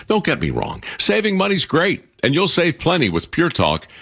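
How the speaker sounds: normal talking voice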